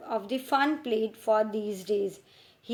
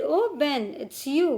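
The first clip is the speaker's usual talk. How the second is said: mock surprise; 4 semitones higher, 3 dB louder than usual. Tom feigns surprise.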